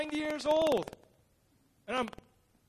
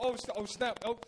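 mock-polite teasing; 4 semitones higher than usual. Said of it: "they were making fun about it".

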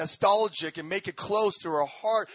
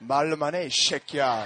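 1 gruff scolding mom; 7 semitones lower, much faster than usual. Retold or imitated. Mom scolding teenage son.

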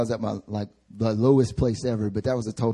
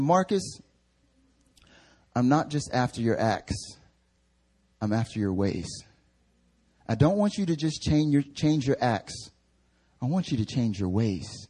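gentle correction. Retold or imitated. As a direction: correct tenderly, letting each phrase settle. Voices God gently correcting him.

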